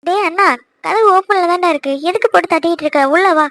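loud call to a brother at the door. Acted. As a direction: call him in, half annoyed. Calls to brother knocking at door.

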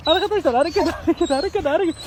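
happy call of "hareket" to the viewers; excited. Real, not acted. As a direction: cheer that "hareket" has returned, voice lifting. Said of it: "arkadaşlar harekete bak".

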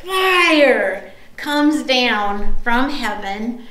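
very slow, drawn-out FIRE; dramatic slow reveal. Real, not acted. Preacher reveals the miracle, slow and dramatic. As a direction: stretch it out for the big moment. Climax of the told story.

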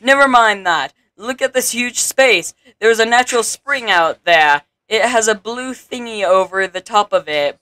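animated tutorial character, settling into instruction; a touch of theatrical guide; lightly voiced town advisor. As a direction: explain the task as a game advisor.

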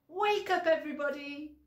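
high loud wake-up call again, stress on Wake. Shown as a demonstration. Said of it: "we have to say".

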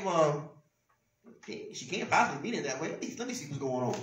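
calm reasoning. Acted. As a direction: talk yourself down, giving a friend the benefit. Acting the understanding friend's reasoning.

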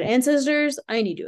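high, loud plea to the ancestors; calling out. Retold or imitated. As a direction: cry out to them for help.

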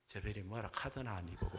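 lightly acted Gyeongsang man; Gyeongsang accent groom. Gyeongsang husband dismisses his bride's question, understated Gyeongsang accent. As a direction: brush her off in Gyeongsang dialect. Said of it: "경상도 남자가 뭐라 할게요".

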